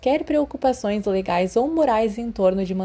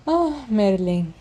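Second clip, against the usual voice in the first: slow, sighing "Ah, Merlin"; exasperated at seeing him again; weary sigh; much slower than usual. Acted. Narcissa sighing at Remus showing up, weary. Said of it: "ela suspirou".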